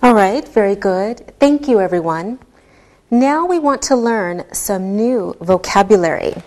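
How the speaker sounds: usual speaking voice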